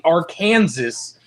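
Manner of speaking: Arkansas said ar-KAN-zəs; mocking mispronunciation of Arkansas. Shown as a demonstration. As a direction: mockingly rhyme Arkansas with Kansas. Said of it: "I say Arkansas to make fun of them".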